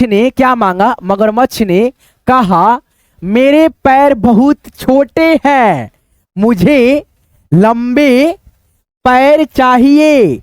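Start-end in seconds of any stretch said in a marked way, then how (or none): 3.2-10.4 slow, careful reading of the crocodile's wish; slow reading aloud. Acted. Teacher reads the crocodile's wish slowly to children. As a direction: read it word by word for young readers.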